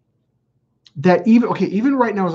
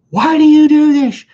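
much higher, louder, yelling the question; exasperated shout; 12 semitones higher, 8 dB louder than usual. Retold or imitated. Man yelling at ex who hung up on client, exasperated shout. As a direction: blow up at her in disbelief. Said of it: "I'm like".

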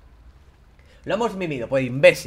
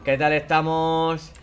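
mock cheery greeting; much slower than usual. Greeting game characters mockingly.

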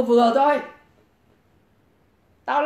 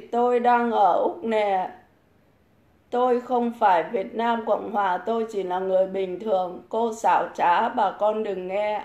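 mock reading; 2 semitones lower than usual. Reads a commenter's message aloud. (đọc bình luận chậm rãi, giọng chế giễu)

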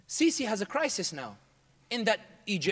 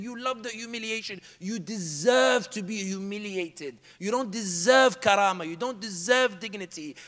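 cold contempt; 3 dB louder than usual. Retold or imitated. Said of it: "And I got really angry".

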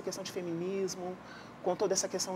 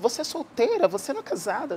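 mock pressing question, pitched up and louder; raised-voice imitation of an interviewer's question; exaggerated retold questioning; 5 semitones higher, 5 dB louder than usual. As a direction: quote a nosy question in an overdone tone. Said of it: "não nesse tom".

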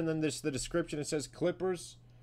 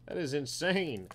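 ordinary talk, nothing marked

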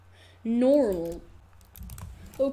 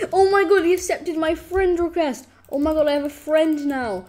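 loud, high squeal of delight; thrilled shout; 4 semitones higher, 5 dB louder than usual. Real, not acted. Gamer cheers when Perry accepts request, loud excited squeal. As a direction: burst out overjoyed.

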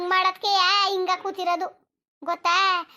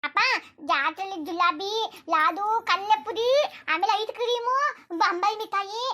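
put-on high, eager girlish voice; excited child daughter; 5 semitones higher than usual. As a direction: bubble over about sweets like a little girl. Daughter lists fair treats excitedly.

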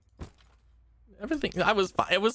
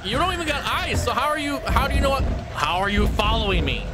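scared; 4 semitones higher than usual. Real, not acted. Chased by monster.

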